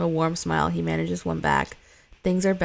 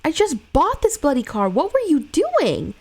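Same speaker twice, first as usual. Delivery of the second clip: angry driver; 8 semitones higher, 5 dB louder than usual. Acted. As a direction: confront her like an outraged driver. Driver confronts after crash.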